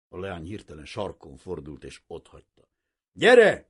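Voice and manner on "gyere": loud call across the garden, high. A narrator's reading. Girl calling her friends from the garden, loud. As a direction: shout to friends far off. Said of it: "kiáltotta oda a társnőinek".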